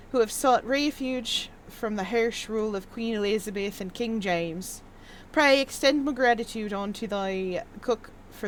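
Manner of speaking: put-on lightly archaic, formal reading of an old letter; old-timey letter reading. Reading a hidden priest's thank-you letter aloud, mildly archaic. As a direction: read it like an earnest seventeenth-century priest. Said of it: "in an old-timey manner".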